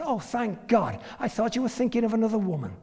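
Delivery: a hint of a relieved wife. Wife voiced in story.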